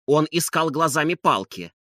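ordinary delivery

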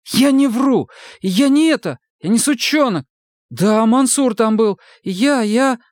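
high, pleading outburst; frightened recruit protesting. A narrator's reading. Сомик отчаянно отрицает обвинения, высоко и испуганно. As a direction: deny it desperately.

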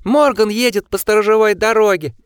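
loud high shrieked warning; shrill shriek. A narrator's reading. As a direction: shriek it in panic. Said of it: "взвизгнул Осмонд".

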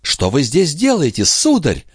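high-pitched indignant question; acted affronted challenge. A narrator's reading. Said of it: "возмущённо спросила Николь".

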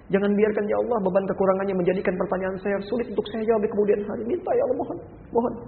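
tender supplication to Allah; gentle prayer. Shown as a demonstration. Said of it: "mohonkan dengan lembut".

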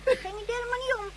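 soft tearful protest after the fight; crying. Acted. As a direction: sob out an excuse. Caught child defends herself crying.

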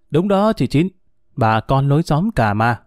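mildly jovial, lifted at the start; cheerful. Acted. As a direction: agree good-humouredly, without taking offence. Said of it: "trái lại thầy vui vẻ". (vui vẻ xởi lởi)

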